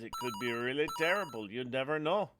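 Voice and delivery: light attempt at a Quebec French accent; a half-hearted Quebec accent on the weather. Shown as a demonstration. Host tries a Quebec accent for co-host, lightly done Quebec accent. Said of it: "I can't do a Quebec accent".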